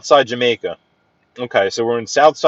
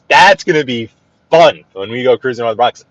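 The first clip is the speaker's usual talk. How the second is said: louder, punching "That's" up front; emphatic repeat; 6 dB louder than usual. Real, not acted. Host repeats the Bronx cruise plan to viewers, louder and emphatic. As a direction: say it again like you mean it.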